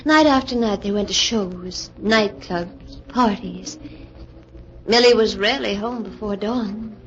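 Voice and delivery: even, measured storytelling read; radio narrator looking back on the story; story narration. A narrator's reading. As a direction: tell the listener what happened next, calmly. Joan narrates between scenes.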